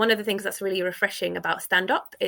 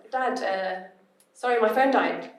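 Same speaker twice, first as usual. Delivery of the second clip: broken English. Retold or imitated. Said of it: "as if I'd just learned English".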